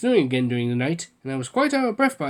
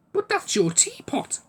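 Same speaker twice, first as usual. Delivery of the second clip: bewildered; 10 semitones higher, slower than usual. A narrator's reading. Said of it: "I said in bewilderment".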